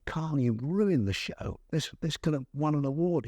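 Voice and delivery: mildly cross, scolding the weatherman; cross rebuke. Retold or imitated. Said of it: "I was really cross".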